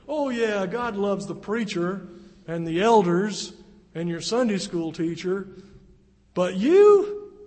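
mocking accuser, booming sarcasm; Satan's taunting voice. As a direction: jeer at them like the accuser. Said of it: "he's whispering in your ear".

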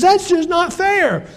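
high, drawn-out mock whine; tearful complaint. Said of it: "she starts crying".

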